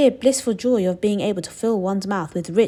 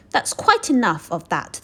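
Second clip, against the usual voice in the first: shouted; 3 semitones higher, 3 dB louder, slower than usual. Acted. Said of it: "the fat shopkeeper shouted".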